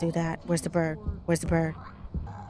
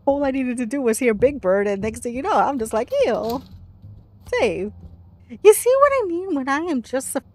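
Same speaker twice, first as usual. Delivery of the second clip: raised voice, jumping high and loud; loud exasperated outburst; 5 semitones higher, 7 dB louder than usual. Real, not acted. Player fed up at needing to save, loud outburst. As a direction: burst out in frustration.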